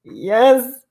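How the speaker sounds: ordinary talk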